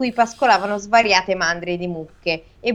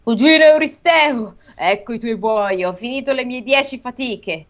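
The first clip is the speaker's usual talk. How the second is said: shouting up; 3 semitones higher than usual. Acted. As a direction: shout it up to the windows. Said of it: "e urlò alle finestre del palazzo".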